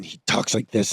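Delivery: a hint of an angry growl; Wolverine. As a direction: briefly imitate a burly, growling hero. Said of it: "angry voice and growling".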